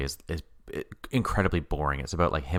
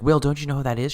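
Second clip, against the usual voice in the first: higher and louder, excited and eager; mock excited squeal; 8 semitones higher, 5 dB louder, faster than usual. Landlady thrilled to see the naturalist, excited. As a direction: gush like she just spotted a celebrity.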